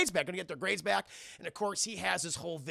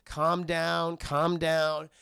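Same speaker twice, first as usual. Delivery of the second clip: slightly drawn soothing words; acted motherly calming; 3 dB louder, much slower than usual. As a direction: settle a crying child. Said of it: "to calm him down".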